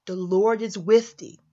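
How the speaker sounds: slow, solemn angelic greeting; slow reverent greeting. Shown as a demonstration. Gabriel greeting Mary, slow and solemn. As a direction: announce it gravely, slowly. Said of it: "Gabriel came down to her and said".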